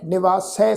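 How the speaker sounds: ਨਿਵਾਸੈ ending in an open "sai"; ਨਿਵਾਸੈ said "ni-vaa-sai"; dulawan sounded. Shown as a demonstration. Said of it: "ਸੱਸੇ ਅੱਖਰ ਤੇ ਦੁਲਾਵਾਂ ਦਾ ਪਾਠ".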